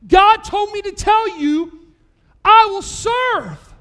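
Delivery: slow ringing declaration; solemn proclamation. Retold or imitated. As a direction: proclaim it word by word like a vow. Nurse's message, climax of sermon.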